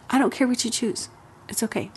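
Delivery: calm indifference. Shown as a demonstration. Parent telling a child the choice is theirs, calm. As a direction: let it go lightly, truly not caring. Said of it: "Actually say the words".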